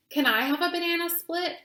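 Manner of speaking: put-on quick, high, pleading little girl; begging child. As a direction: plead like a kid wanting a treat. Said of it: "I begged Mama".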